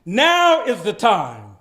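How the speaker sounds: dramatic reading. Shown as a demonstration. Reading Martin Luther King's speech aloud with full pathos. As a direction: deliver the speech with pathos and gravity. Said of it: "I would like to capture some of the pathos".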